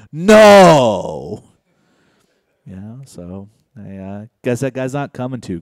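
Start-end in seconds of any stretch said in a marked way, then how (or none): 0.1-1.4 sudden loud high yell of no; one loud higher shouted no; retold scream. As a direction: shout the no at your wife, louder and higher.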